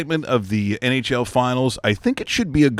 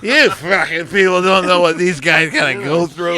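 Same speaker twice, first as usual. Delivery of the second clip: angry rant; 6 semitones higher, 5 dB louder than usual. Pretend. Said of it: "Rob Hughes, our president, goes".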